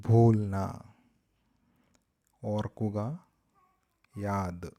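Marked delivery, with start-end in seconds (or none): 0.1-0.5 ഭൂൽന said again much louder, falling at the end; teacher repeats ഭൂൽന loudly for the class. Shown as a demonstration. (ഭൂൽന ഉറക്കെ ആവർത്തിക്കുന്നു)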